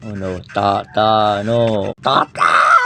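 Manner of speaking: rising loud cry of a name; loud dismay as Tata dies in game; anguished call. Real, not acted. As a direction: cry out as the ally falls. Teammate dying in game.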